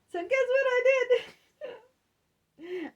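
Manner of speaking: slow, high, loud drawn-out tease; teasing suspense. Real, not acted. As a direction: stretch it out to make them guess. Teasing build-up before naughty reveal.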